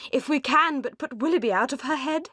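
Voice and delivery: high, chattering busybody matron; high-pitched Mrs Jennings, delighted with her news; gossiping old matron. A narrator's reading. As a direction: relish the gossip like a meddling old lady.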